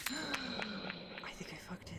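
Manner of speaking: slow unvoiced whisper after a gasp; a hushed gasped fear the trick failed; whispered worry. Real, not acted. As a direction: gasp then whispered panic about a failed try.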